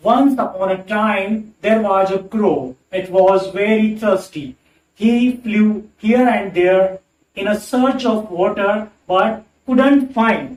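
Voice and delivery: slow, even storybook rhythm in one flow; rhythmic reading. Shown as a demonstration. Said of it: "जब मैंने इसको एक लय में पढ़ा". (एक लय में धीरे-धीरे कहानी की तरह पढ़ना)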